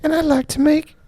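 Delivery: A singer's voice. Pretend. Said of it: "Michael Jackson".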